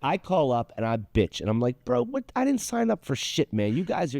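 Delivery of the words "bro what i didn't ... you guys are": high, mock white-guy complaint. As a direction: play a nasal-free white dude ranting on the phone. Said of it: "You do a good white voice".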